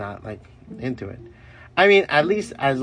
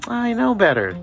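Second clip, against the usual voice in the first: mock knowing exclaim; 12 semitones higher, 3 dB louder than usual. Acting knowing inner voice.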